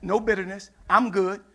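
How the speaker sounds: mild, settled reply without attitude; no bitterness. Acted. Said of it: "they didn't have no bitterness, no attitude".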